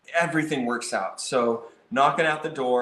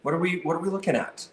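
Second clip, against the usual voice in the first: inquisitive; 4 semitones higher, faster than usual. Shown as a demonstration. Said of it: "kind of this inquisitive".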